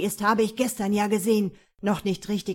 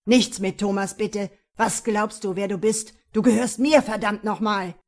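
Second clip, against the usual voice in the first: furious shout; 8 dB louder than usual. Acted. Attacker shouts possessively.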